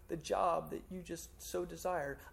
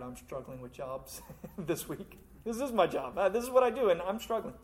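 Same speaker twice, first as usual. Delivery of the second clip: laughing confession. Real, not acted. Pastor laughs at himself.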